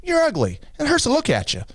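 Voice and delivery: very high parrot voice; parrot insult. Acted. Parrot insulting the woman, high parrot voice. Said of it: "parrot says".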